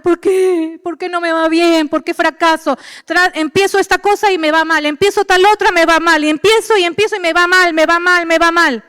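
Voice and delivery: a mild complaining believer; mock whining. Preacher imitating a believer crying over failed plans, mild whine. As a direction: whine it lightly. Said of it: "Y después estamos llorando".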